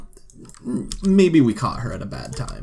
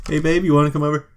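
smooth flirty call; 4 semitones higher, 6 dB louder, much faster than usual. Pretend.

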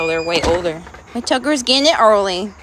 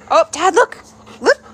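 high, loud delighted call; excited; 8 semitones higher, 6 dB louder than usual. Real, not acted. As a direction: call out, thrilled. Excited at dog.

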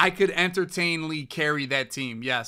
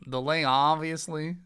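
Jaybird impression; slower than usual. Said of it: "sounds just like Jaybird".

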